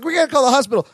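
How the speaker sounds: high-pitched mock panic; frenzied. Marianne to Balky before leaving for hospital, frenzied. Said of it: "they get all frenzy".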